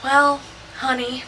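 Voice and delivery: lightly stretched Southern US drawl. Retold or imitated. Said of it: "in all his southern drawl".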